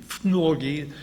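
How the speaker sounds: fnorgy said as FNOR-gy, stress on the first syllable; Russian word. Shown as a demonstration. Teaching the listener a Russian word, fnorgy stressed on FNOR. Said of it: "That's how you say it in Russian".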